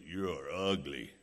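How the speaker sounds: parrot voice. Retold or imitated.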